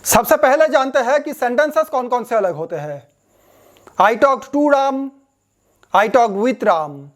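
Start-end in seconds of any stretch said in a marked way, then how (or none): 4.0-5.1 very slow, careful read of an example; slow example sentence. Shown as a demonstration. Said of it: "British English कौन सा". 6.0-7.1 very slow, careful read, stress on talked; slow example sentence. Shown as a demonstration. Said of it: "American कौन सा".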